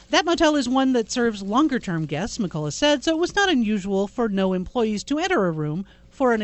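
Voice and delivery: formal newsreader; news read. Acted. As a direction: read it straight.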